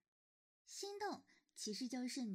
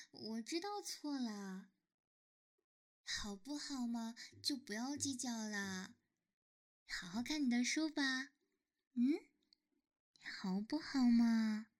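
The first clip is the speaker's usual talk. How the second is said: cutesy whiny pleading; 2 semitones lower than usual. Acted. Coaxing partner to forgive.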